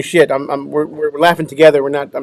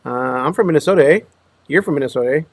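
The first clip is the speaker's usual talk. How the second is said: lightly mimicked Minnesota accent with questioning "eh"; faster than usual. Recalling his old habit after moving, mock Minnesota accent. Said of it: "Every time I had a question".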